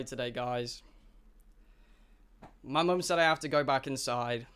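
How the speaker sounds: put-on a sheepish little kid called inside by mum; a kid telling friends his mum says come in; child voice. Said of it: "what I would say if I were a child".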